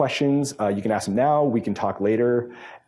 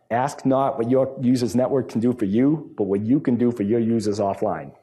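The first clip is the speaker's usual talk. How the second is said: attempted Boston accent, louder and deliberately paced; 3 semitones higher, 4 dB louder than usual. Speaker closing remarks to a conference room, attempted Boston accent. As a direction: put on your best Boston accent for a famous-quote parody. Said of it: "my best attempt at a Boston accent".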